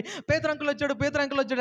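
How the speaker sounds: put-on high, eager child announcing news; excited little girl. Girl runs to tell the elders, high and excited. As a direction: burst in like a thrilled child. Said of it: "ఎగురుకుంటూ వచ్చి అందరికి చెప్తుంది".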